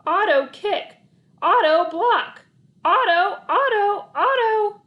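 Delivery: relentless coach yelling from the sideline; coach shouting orders. A narrator's reading. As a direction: bark each order, the name rising to a cry.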